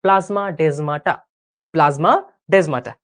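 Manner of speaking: measured teacher's pace for a class to join in; deliberate say-along delivery; slow, for repeating. Shown as a demonstration. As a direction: say the term unhurriedly, pausing before repeating it. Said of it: "এই জন্য আমরা আস্তে আস্তে বলছি".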